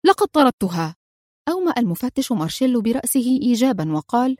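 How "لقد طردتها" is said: tense, snapped answer; nervous cry. A narrator's reading. Grauchou nervously telling the police he threw her out. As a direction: blurt it defensively. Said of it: "هتف في عصبية".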